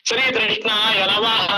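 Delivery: "శ్రీకృష్ణాయ" slowly, with tru for kru; mispronounced kru. Acted. Devotee trying after correction, still saying "శ్రీకృష్ణాయ" slowly as shri-trushnaya. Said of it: "వాడికి ఇంకా పలకదు".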